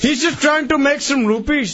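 put-on Indian accent bit. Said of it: "your Indian impression".

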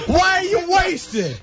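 mock scolding. Mock lecture after he vomits.

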